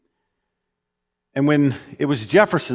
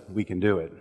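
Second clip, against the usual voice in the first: can-do attitude; 5 semitones lower, 8 dB quieter, faster than usual. Pretend. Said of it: "that look that says".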